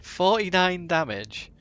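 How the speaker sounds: loud, high, drawn-out disbelief; aghast exclamation. Real, not acted. Player aghast at the huge damage roll, loud disbelief.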